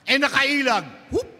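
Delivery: high, loud, slowed exclamation; dramatic dodge. A narrator's reading. Narrating sacristan dodging the ball. (madramang pag-iwas, mataas at malakas)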